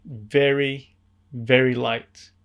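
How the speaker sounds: "very, very light" slowly drawn out; emphasized "very, very light". Real, not acted. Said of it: "Emphasis on light".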